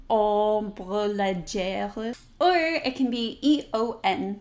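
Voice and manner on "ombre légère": very slow ombre légère, nasal O; French ombre légère. Shown as a demonstration. Teacher modeling ombre légère, slow nasal French. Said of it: "like I said in the beginning".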